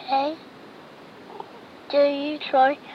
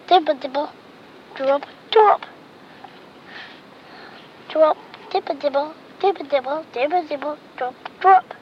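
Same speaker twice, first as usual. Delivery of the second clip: rain dripping sounds; 4 dB louder than usual. Retold or imitated. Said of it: "sound like a wind".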